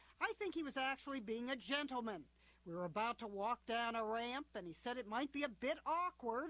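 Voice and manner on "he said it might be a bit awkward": normal talking voice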